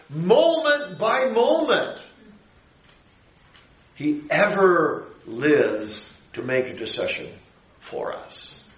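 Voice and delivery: high and slow, ending in a whisper; rising then hushed. Acted. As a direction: lift it, then breathe "for us". Preaching climax then hush.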